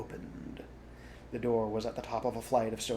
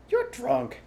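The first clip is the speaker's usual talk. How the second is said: higher, louder reproach; accusing; 13 semitones higher, 8 dB louder than usual. A narrator's reading. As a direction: call him out. Fox accuses Rat.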